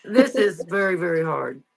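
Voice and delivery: tearful, words catching; close to tears. Real, not acted. Recalling leaving her mother, tearful and halting. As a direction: push the words out through real tears. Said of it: "God, I'm gonna cry again".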